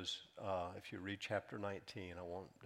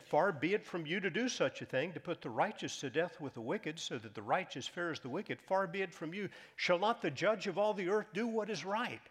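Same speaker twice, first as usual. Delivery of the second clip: bold plea; 7 semitones higher, 5 dB louder than usual. Acted. Abraham pleading boldly with God.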